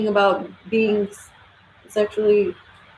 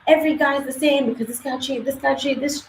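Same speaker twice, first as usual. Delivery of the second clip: a touch higher and softer, quick whiny list; hint of a put-on whiny voice, a bit faster; mock complaining woman; 6 semitones higher, 3 dB quieter than usual. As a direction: lightly imitate a woman blaming every guy. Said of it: "and be like".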